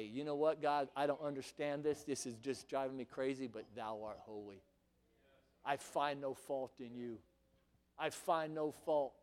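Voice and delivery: low, very soft surrender to God; subdued, reverent confession; hushed worship prayer. Acted. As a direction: pray it quietly and low. Acts out humble prayer of worship.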